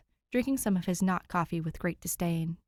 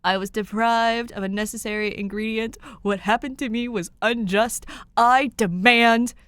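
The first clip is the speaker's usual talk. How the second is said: indignant declaration; 4 semitones higher, 8 dB louder than usual. A narrator's reading. Tim protests his coffee, building to a loud demand. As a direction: rise into outraged protest. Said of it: "Tim declares".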